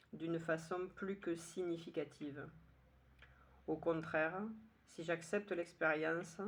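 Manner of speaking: measured verse reading with spaced-out lines; poem recitation. Acted. Poet rereading just for pleasure a third time, measured recitation. Je vous le relis une troisième fois.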